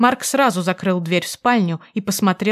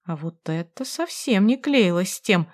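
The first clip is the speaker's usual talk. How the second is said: ordinary delivery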